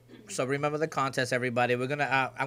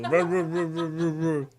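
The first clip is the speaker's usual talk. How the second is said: mock mumble chant; 3 semitones higher, much slower than usual. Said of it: "That's all you hear from you two".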